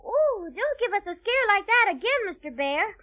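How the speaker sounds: play-acted fright; pretend fear. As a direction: plead as if scared, just pretending. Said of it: "Let's pretend we're really afraid".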